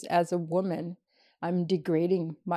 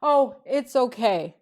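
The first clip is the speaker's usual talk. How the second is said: pitying lady; 6 semitones higher, 7 dB louder, slower than usual. Retold or imitated. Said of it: "She goes".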